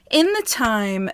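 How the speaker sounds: breathless, short of air; talking while winded; out of breath. Real, not acted. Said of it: "you're gonna hear me out of breath".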